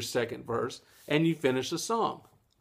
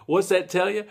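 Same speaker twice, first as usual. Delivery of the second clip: louder question to viewers; 6 semitones higher, 6 dB louder than usual. Shown as a demonstration. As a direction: ask it out loud to the class. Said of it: "Am I asking myself?".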